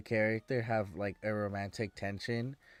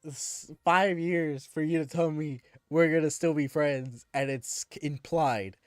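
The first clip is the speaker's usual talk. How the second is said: indignant retort; 4 semitones higher, 4 dB louder than usual. Retold or imitated. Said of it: "I'm like".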